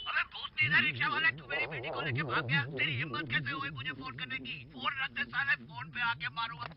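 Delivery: enraged father yelling at his daughter's kidnapper; angry father. Acted. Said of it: "बहुत गुस्से में लग रहे बाबूजी".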